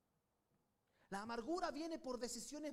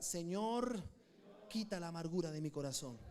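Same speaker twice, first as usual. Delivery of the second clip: louder, fervent "Señor" then pleading line; loud prayer; 7 semitones lower, 4 dB louder than usual. Shown as a demonstration. Preacher leading the congregation in prayer, loud and fervent. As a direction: call it out to heaven.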